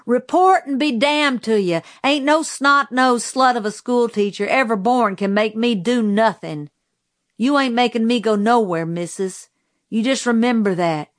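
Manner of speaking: a touch of insolent backwoods defiance; defiant insult. Acted. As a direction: talk back to the teacher, daring and scornful. Defiant boy insulting the schoolteacher.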